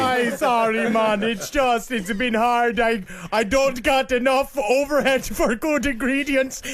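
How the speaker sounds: mock sad vendor. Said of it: "Terrible salesman".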